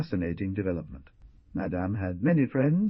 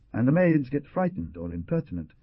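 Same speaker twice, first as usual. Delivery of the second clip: "impertinent" with the stress on the last syllable, imperti-NENT; Madame's foreign stress on "impertinent"; 6 semitones higher than usual. A narrator's reading. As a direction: land hard on the end of "impertinent". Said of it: "She laid the accent on the last syllable".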